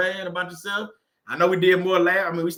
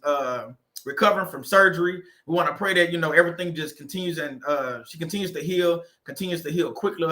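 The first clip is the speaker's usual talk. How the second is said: closing prayer. Acted. Host closing his live for viewers with a calm earnest prayer.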